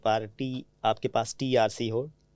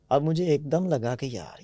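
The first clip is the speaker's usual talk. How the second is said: normal talking voice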